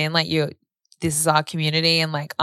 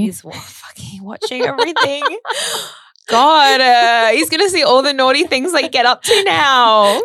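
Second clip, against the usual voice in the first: laughing; 8 semitones higher, 5 dB louder than usual. Real, not acted. Joking dad watches from heaven.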